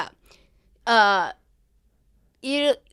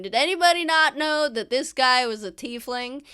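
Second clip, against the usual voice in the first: mildly raised, higher calling voice; retold shout; 4 semitones higher, 5 dB louder than usual. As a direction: repeat the holler at a lighter force. Replays the shouted announcement overheard.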